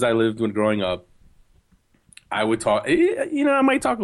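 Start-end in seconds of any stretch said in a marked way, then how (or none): 2.9-4.0 playful New Jersey accent, fast; hammed-up Jersey street voice. Shown as a demonstration. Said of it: "If I went back to Passaic".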